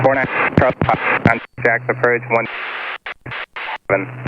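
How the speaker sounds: garbled radio call dropping out; radio breaking up. Real, not acted. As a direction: signal breaking up mid-transmission. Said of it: "Broke up".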